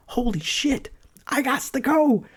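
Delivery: very high squeaky panic, held back in volume; mock panic. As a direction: replay your freak-out in a high voice. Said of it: "I'm freaking out".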